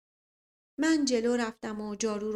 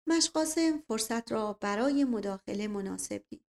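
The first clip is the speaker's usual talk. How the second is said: plain reading voice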